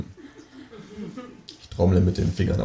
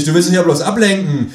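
loud, raised-pitch accusation; calling out; 8 semitones higher, 6 dB louder than usual. A narrator's reading. Writer catches kangaroo changing the subject, loud accusing cry. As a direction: accuse it at full voice. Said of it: "rufe ich".

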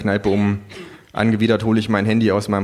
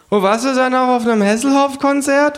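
high, mocking kangaroo; 5 dB louder than usual. A narrator's reading. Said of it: "fragt das Känguru".

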